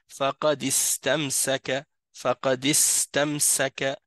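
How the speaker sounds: "فقد استمسك" linked straight through as faqadistamsaka; silent hamzat al-wasl. Shown as a demonstration. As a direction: recite "فقد استمسك" with no glottal break before the I. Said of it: "on le prononcera pas".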